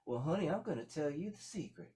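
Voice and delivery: put-on grandma confiding to the bride in a high old voice; old country grandma. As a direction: let the old woman share a secret. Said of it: "he had an old country grandma".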